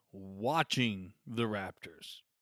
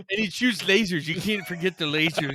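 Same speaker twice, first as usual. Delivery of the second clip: excited hype; 4 semitones higher, 6 dB louder than usual. Retold or imitated. Joining the mock hype.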